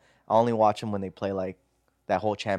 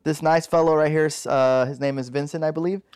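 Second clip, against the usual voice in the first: moderator; 3 semitones higher than usual. Acted. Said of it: "pretend you're the moderator".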